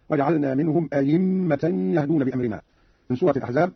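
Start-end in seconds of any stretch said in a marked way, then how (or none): 0.1-2.6 "أئمة" said as a-yimma; hamza as pure ya. Shown as a demonstration. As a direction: clear y in the middle of "أئمة". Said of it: "أو إبدالها ياء خالصة".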